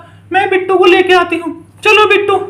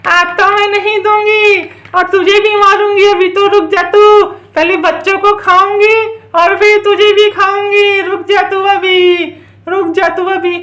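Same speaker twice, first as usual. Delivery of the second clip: menacing witch. Pretend. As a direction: threaten in a stretched, singsong way.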